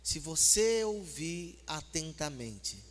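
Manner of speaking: very slow, suave delivery; measured, soothing pace; gentle and slow. Shown as a demonstration. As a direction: say it gently, stretching each word. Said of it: "assim, bem suavezinho".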